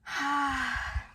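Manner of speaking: a long, heavy put-upon sigh; retold dramatic sigh. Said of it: "she just sighed, like, really dramatically".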